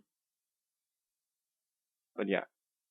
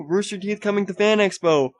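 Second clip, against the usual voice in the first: much higher, loud hype-man announcing; hyped announcer; 10 semitones higher, 4 dB louder than usual. Shown as a demonstration. Vlogger hyping news for viewers, higher and louder. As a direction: sell the news like a game show host. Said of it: "I'm trying to do this enthusiastically".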